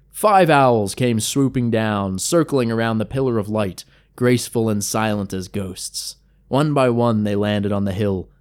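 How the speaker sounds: usual speaking voice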